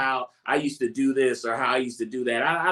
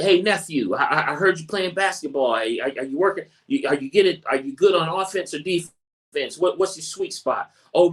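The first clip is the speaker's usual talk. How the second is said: higher, lively voice of an interested uncle; friendly uncle; 4 semitones higher than usual. Retold or imitated. Uncle asks nephew about his basketball game, lively and friendly. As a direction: chat up the nephew with keen interest.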